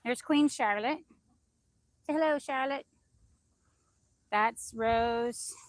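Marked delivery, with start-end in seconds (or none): 2.1-2.8 higher, louder voice for the hen; coaxing pet talk. Real, not acted. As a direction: coax a pet to greet the camera.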